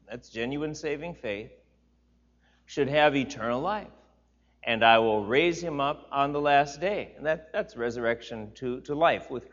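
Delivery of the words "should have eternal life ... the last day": louder, raised preaching read; scripture reading. Acted. Pastor reading Jesus' words aloud to the church, raised and solemn. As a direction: proclaim the verses to the congregation.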